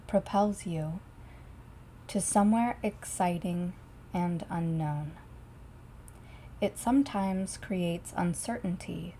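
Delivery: measured delivery with long pauses between phrases; solemn, unhurried channeling voice; spirit channeling. Acted.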